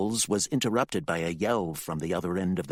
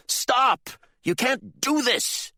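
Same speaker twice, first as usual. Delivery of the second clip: much higher, louder, slow plea; desperate shout; 5 dB louder, slower than usual. Acted. Candy shouts at her father to stop. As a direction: beg him to stop.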